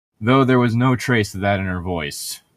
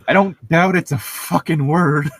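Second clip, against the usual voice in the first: high, loud laughing exasperation; giggling, fed up with the word; 9 semitones higher, 5 dB louder than usual. Real, not acted. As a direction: laugh it out in disbelief.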